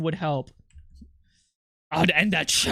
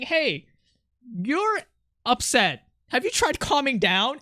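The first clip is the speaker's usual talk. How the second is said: mock condescending; 6 semitones higher than usual. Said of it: "that's like saying".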